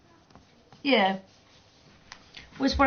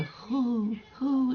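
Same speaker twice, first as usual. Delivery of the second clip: soft cooing pigeon hoo; gentle mimicked pigeon call; pigeon hoot; 3 semitones higher, 5 dB quieter than usual. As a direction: coo like a pigeon. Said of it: "pigeons that go".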